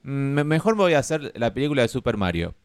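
playful shouted quip; John Leguizamo. Retold or imitated. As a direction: toss off the line with a shout. Quoting actor turning down role.

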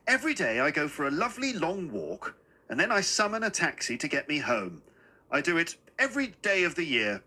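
lightly voiced old gentleman; a touch of chirpy old man, slightly lifted; little old man, cheerful. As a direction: explain it eagerly and politely. Little man describes his walks.

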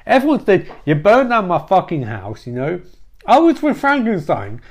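high, agitated character voice; ranting Yvonne. Acted. Yvonne rants at Bobby in story.

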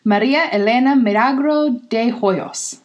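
Maria Elena Milagro de Hoyos with rolled, trilled R's. Shown as a demonstration. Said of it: "I love rolling my R's".

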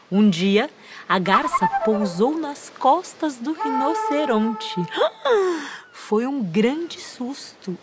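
put-on gentle story narration for children; fireside storytelling. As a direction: tell the tale warmly to children. Reads story aloud to children. (contação de histórias)

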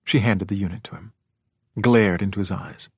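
ordinary delivery, nothing marked

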